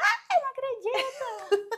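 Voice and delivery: acted-out stretched shriek, very high, very slow, excited. Retelling own reaction from a recorded video: imitating own past shouting.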